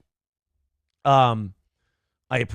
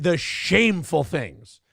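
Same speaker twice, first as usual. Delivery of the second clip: usual speaking voice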